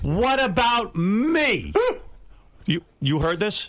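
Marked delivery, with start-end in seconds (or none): 0.0-1.7 mock-loud outburst, much higher. Retelling how he reacted at a party, imitating him getting loud. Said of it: "He gets loud".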